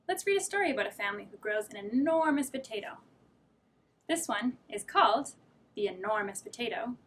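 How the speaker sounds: lively read-aloud storytelling; reading to children. A narrator's reading. Teacher reading a picture book to children. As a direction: read it like story time for little kids.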